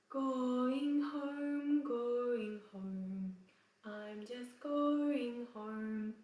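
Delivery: "going home" sung slowly in a mock English accent; exaggerated English accent. Shown as a demonstration. Teacher mocks the wrong accent in the song. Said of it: "if you sing like this".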